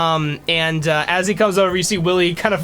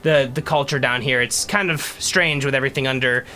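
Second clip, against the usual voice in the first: put-on an old dwarf welcoming newcomers; cheerful old dwarf, pitch up. GM plays old dwarf NPC.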